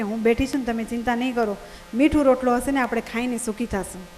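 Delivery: soft, gentle wife soothing her husband; wife reassuring her weary husband, tender and soft; tender reassurance. Retold or imitated. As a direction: comfort him as a loving wife would. Wife comforting her tired husband.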